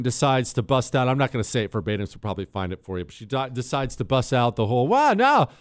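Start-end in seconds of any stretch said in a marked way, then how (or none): 4.9-5.5 higher, louder put-on Southern accent; a hint of a Southern drawl imitated; mock Southern accent. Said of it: "she busts out this kinda Southern, kinda black accent".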